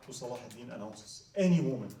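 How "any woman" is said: proclaiming. Acted. Sultan proclaims to the city.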